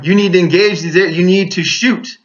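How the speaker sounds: half-voiced holler of urgent orders; retold hollering. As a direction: drive each order home, reenacting a holler. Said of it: "And I'm hollering at him".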